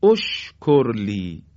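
اشکر لی opened as "oshkor li"; damma start. Shown as a demonstration. Teacher gives the correct standalone start to students. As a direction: begin اشکر لی on an o sound, slowly. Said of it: "باید بگیم".

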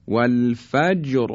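"والفجر" ending on a thick, heavy R. Shown as a demonstration.

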